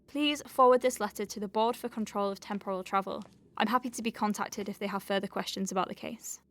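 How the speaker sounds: lightly formal dictation voice; dictating a letter. Acted. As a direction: read it out like an official letter.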